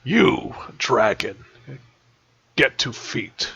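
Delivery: rough gravelly monster voice; deep gravelly voice. Acted. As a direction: growl it out like a brute. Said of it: "a deep, gravelly voice".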